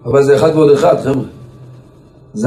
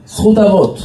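higher-pitched, emphatic reply; rabbi's emphatic answer; 6 semitones higher than usual. Retold or imitated. Rabbi answering those who ask him how, emphatic. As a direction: lift it high as a set answer. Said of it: "ככה סידנא היה עונה".

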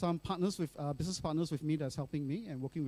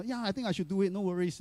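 a light smiling tone, slightly higher; smiling reassurance; 4 semitones higher than usual. Retold or imitated. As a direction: brush it off with a smile. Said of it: "I was still smiling and telling her".

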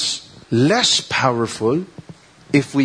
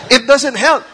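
laughing; 8 semitones higher, 4 dB louder than usual. Real, not acted. Joking about useless advice.

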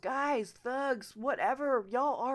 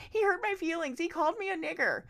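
mocking whiners; 8 semitones higher, 4 dB louder than usual. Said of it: "slip back into".

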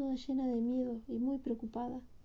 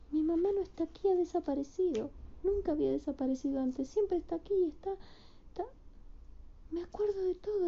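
put-on upset young bird; 6 semitones higher than usual. Bird voiced, remembering.

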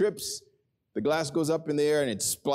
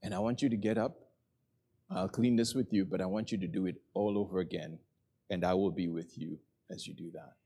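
tender voice of God; 5 semitones lower, 4 dB quieter than usual. Retold or imitated. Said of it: "God says".

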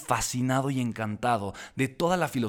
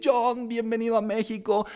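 high, eager greeting; effusive welcome; 8 semitones higher than usual. Retold or imitated. Young fan greeting his idol at the airport, effusive. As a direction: gush the welcome to your idol. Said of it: "muy efusivamente".

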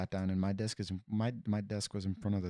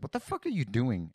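higher-pitched retold outburst of annoyance; mildly heated, indignant swearing question; pissed-off retort; 5 semitones higher, 4 dB louder than usual. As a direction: replay being fed up, pitch lifted. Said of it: "I was pissed already".

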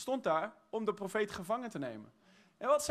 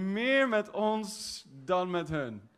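slow emphasis; much slower than usual. Shown as a demonstration. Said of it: "slow repeat for emphasis".

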